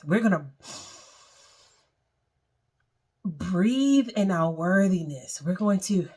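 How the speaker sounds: calm guided meditation voice. Acted. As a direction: lead them gently through the breathing.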